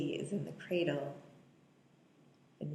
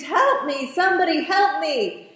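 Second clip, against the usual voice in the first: higher, louder desperate cry; imitated scream for help; 10 semitones higher, 10 dB louder than usual. Mia trapped in the apartment, imitated scream for help. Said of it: "She screams".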